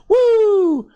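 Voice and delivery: high, drawn-out "woo"; roller-coaster whoop. Retold or imitated. Describing the coaster rides to listeners, high playful whoop. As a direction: mimic a rider's high whoop, falling at the end. Rider's thrill in coaster story.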